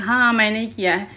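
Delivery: mildly acted brazen admission; retold cocky challenge, lightly played; defiant attitude. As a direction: own up to it like a dare. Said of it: "एकदम attitude में खड़ा होकर".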